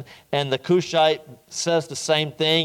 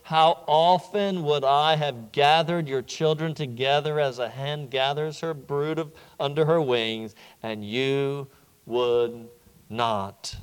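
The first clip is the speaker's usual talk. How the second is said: lament. Retold or imitated. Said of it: "he looks at the city and he cries out".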